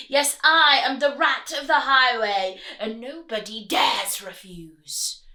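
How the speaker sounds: loud bellowing villain; bellowing rat. Acted. Highway rat bellowing at the ants, loud. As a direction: bellow the order. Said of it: "who bellowed a deafening".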